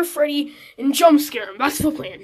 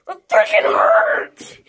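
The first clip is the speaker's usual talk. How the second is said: slow, crying shout of pain; 4 semitones higher, slower than usual. Pretend. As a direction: yell through the hurt. Hit by duck.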